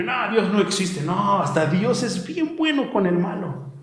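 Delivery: mimicking a careless scoffer; mock dismissive sinner. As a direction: wave it away as the wicked would. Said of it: "Pero el malo piensa que".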